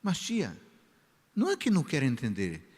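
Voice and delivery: put-on high, pleading boy rushing his argument; boy answering the church lady, high and pleading; protesting teenager. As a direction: play the boy defending himself, fast and high. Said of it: "o menino fala assim".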